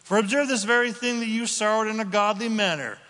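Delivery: preacher reading the verse with a quick, loud lift; excited reading. Real, not acted. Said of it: "Go ahead, Chris".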